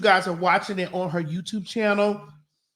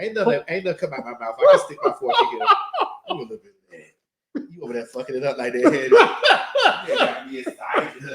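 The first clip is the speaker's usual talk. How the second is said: laughing. Real, not acted. Laughing about stealing salad.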